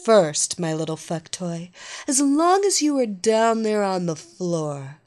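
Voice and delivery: loud, bossy mistress orders; commanding dominatrix. Acted. Evelina gives orders.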